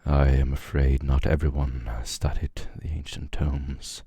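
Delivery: lightly voiced weary priest, measured phrases with long pauses; understated in-character lament; solemn Confessor. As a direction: pronounce it gravely, phrase by phrase.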